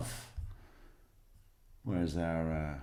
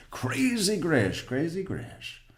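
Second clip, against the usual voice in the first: amused singsong; 9 semitones higher, slower than usual. Real, not acted. Singsong nickname after a laugh.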